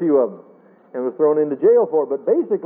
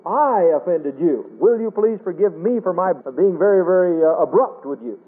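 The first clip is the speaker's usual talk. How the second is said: sincere, humble apology. Shown as a demonstration. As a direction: own the hurt gently, asking to be forgiven. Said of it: "the attitude that I go back with is".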